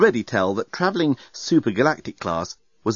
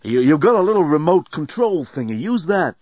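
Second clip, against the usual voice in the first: shouting; 5 semitones higher, 4 dB louder than usual. A narrator's reading. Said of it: "shouted Dan".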